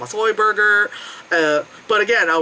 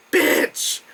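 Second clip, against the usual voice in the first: 1 whispered curse. Retold or imitated. Realizing stairs were pointless.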